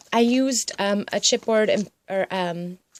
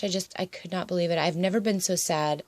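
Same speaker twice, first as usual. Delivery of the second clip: ordinary delivery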